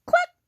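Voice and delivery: short sharp cluck; a quick chicken noise. A narrator's reading. Chicken greets the truck, short cluck. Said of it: "said a chicken".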